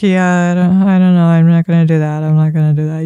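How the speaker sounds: flat, low, lifeless chatter; dull low mumble. Shown as a demonstration. Coach showing a friend's bored reply. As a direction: drone it out like you don't care. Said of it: "not talking to each other like".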